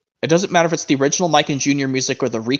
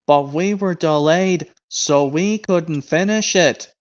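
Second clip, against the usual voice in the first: Diesel impression; slower than usual. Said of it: "Diesel impression".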